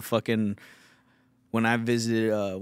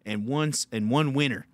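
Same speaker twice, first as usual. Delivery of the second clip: lightly voiced lisping beaver; a hint of a hardworking buck-toothed beaver; beaver impression. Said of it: "this is my impression of a beaver".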